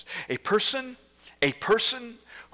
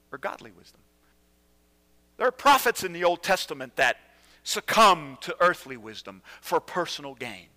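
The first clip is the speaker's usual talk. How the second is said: usual speaking voice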